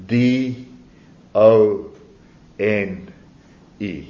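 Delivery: each letter of D O N E said alone, with a pause after each; spelling out D O N E. Shown as a demonstration. Preacher spelling D O N E letter by letter to the congregation. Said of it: "the gospel is spelt".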